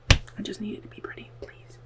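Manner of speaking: soft, half-whispered pleading; small, quiet begging; hushed plea. Real, not acted. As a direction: plead under your breath, trailing to almost nothing. Repeats her anxious wish as a plea.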